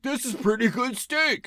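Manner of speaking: high-pitched put-on younger self. Recalling college-age steak dinners, as a high-voiced younger self. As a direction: quote your younger self in a silly high voice. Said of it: "when I was a kid and even in college".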